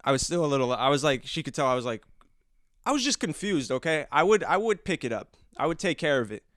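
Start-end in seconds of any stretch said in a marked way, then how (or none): 2.8-6.4 higher-pitched, half-joking self-defense; defensive protest. Real, not acted. Son excuses himself for not picking up mouse, defensive. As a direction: insist on it, pitch jumping up.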